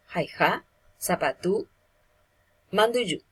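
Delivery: "jaija, zapatú, manduyu" each stressed on its last vowel; stress on final vowel. Shown as a demonstration. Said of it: "recae sobre la vocal final de la palabra".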